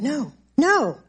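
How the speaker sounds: firm refusal. Retold or imitated. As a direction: push the thought away, voice lifted. Acted refusal to attacking thoughts.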